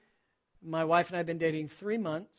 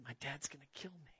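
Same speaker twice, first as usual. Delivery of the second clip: fighting back tears; 3 semitones lower, 16 dB quieter than usual. Retold or imitated. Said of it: "now I'm fighting back tears".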